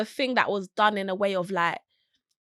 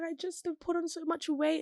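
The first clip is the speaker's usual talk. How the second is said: mock tearful; 8 semitones higher, 8 dB quieter than usual. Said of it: "she was like".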